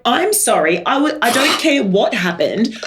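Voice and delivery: a harried mum who has had enough; exasperated mum. Retold or imitated. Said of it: "And I'm like".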